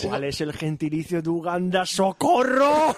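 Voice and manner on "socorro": high, drawn-out playful wail; hammed-up call for help; mock cry for help. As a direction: stretch it out high, pleading for rescue. Mock cry for help amid laughter.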